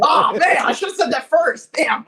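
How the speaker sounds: loud, laughing self-reproach; excited groan. Real, not acted. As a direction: kick yourself out loud, laughing. Guest kicks himself, laughing.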